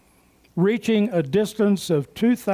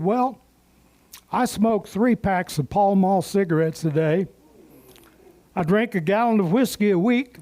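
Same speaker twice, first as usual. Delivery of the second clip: East Texas drawl. Retold or imitated. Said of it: "in that familiar East Texas drawl".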